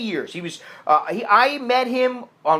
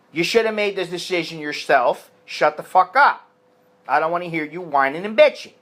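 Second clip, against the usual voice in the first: firm telling-off. Retold or imitated.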